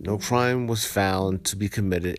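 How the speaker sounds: steady, even article reading; news article read-aloud. Acted. Vlogger reading viewers a viral Central Park story, news read-aloud. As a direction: read out the report evenly.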